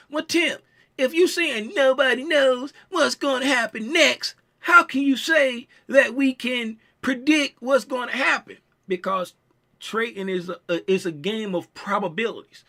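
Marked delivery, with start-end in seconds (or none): 0.1-8.6 imitating a doubting viewer. Tim voices a doubting viewer.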